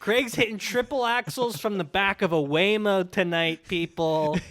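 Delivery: lightly hammed-up announcer call; mock sports commentary. Host calling Craig's moves from a Waymo, mock commentary.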